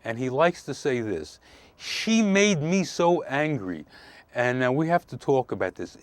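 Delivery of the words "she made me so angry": imitated complaint. Quoting client's complaint about wife.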